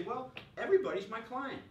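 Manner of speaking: hammed-up boast; mock confidence. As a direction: brag it like his old self. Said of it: "And I say".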